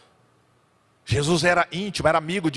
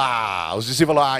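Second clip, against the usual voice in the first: ordinary talk, nothing marked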